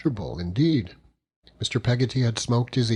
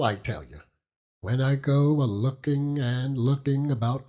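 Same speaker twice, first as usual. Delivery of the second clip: lightly voiced fond old fisherman; 3 semitones higher than usual. Peggotty confides about Emily.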